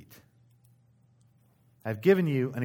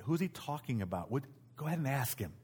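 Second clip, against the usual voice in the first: hushed, much softer side question; quiet aside; 9 dB quieter than usual. Acted. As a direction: ask it discreetly, for one friend's ears. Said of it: "quietly speaking to John".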